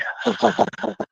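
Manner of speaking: high, soft sinister cackle; villain laugh. Pretend. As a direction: cap the threat with an evil chuckle. Laugh closing scary voice act.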